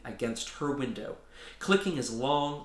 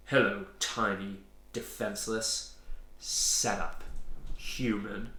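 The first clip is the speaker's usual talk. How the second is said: menacing beast voice; 3 semitones lower, slower than usual. Acted. Monster Graz voiced, odd timbre.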